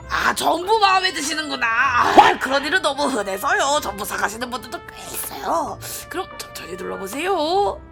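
polite saleswoman voice; smooth sales pitch; customer service voice. Acted. Voices shopkeeper NPC.

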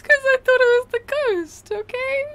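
high, defensive protest. Real, not acted. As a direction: insist you're not to blame. Defending herself, laughing.

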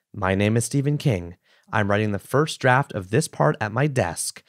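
measured read-aloud voice with gentle emphasis; book reading. Acted. Host reading a Stephen King passage to a co-host, book reading. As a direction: read the passage evenly, phrase by phrase.

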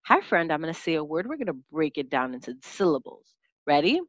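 put-on soft, friendly teacher voice to a young pupil; teacher talking to child. Shown as a demonstration. Teacher models greeting a pupil for the lesson, soft and friendly. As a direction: gently invite the child to start. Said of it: "this is what it looks like in action".

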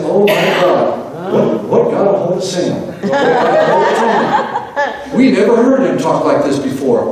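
astonished gasp, slowed and laughing; laughing mock astonishment at a changed man; amazed onlookers. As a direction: play the stunned crowd, chuckling as you do. Astonished onlookers voiced by pastor.

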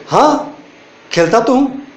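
"हाँ" thrown up high, then "खेलता तो हूँ" insisted; a firm yes, I do play; emphatic yes. Shown as a demonstration. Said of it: "means हाँ मैं cricket खेलता तो हूँ". (ज़ोर देकर, "हाँ" ऊँचे सुर में)

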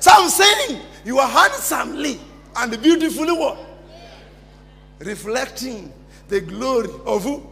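call-and-response preaching. Acted. Preacher prompting the congregation to answer, call-and-response. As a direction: leave the last word for the crowd.

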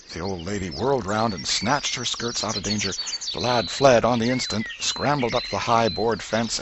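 plain reading voice

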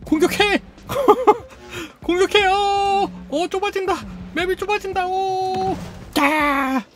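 panic-yell the robot into attacking; frantic excitement. Real, not acted. Player shouting as the map closes in, frantic and high. Frantic as arena shrinks mid-fight.

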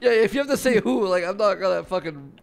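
exasperated. Real, not acted. Exasperated rant about saying who.

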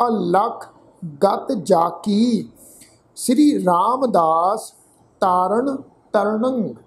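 slow, measured Gurbani reading with drawn-out words; scripture recitation. Shown as a demonstration. Teacher reading Gurbani aloud to the congregation, slow and measured recitation. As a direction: recite phrase by phrase, lengthening the endings.

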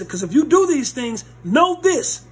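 high, loud know this; emphatic preaching. Acted. Preacher warning the church, emphatic. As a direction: drive the warning home.

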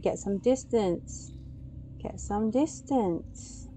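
soft, slow, fading to a whisper; quiet drawn-out words, sinking into whisper; hushed caution. Real, not acted. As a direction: coax gently while creeping away. Creeping away from monster.

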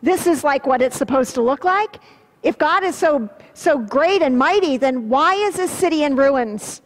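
scoffing neighbor, pitch up at the start; mocking neighbors. Mild mock of a neighbor scoffing at Jerusalem's ruins. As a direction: sneer at the ruined city. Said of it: "neighbors who are worshiping other gods goes".

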